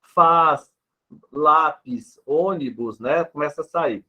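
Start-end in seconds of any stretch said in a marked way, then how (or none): 0.0-3.0 FAZ, LÁPIS, ÔNIBUS with the final S sounded. Shown as a demonstration. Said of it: "esse som no final da sílaba". ("Faz, lápis, ônibus" com o S final pronunciado)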